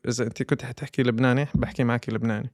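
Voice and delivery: fast Lebanese Arabic; Lebanese dialect. Shown as a demonstration. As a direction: switch into Lebanese dialect quickly. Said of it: "I adapt other people's dialect".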